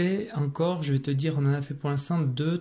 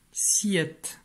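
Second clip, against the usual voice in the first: whispered; 6 semitones higher than usual. Shown as a demonstration. Teacher whispering the syllable again for the pupil. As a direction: repeat "Siette" in a breathy whisper.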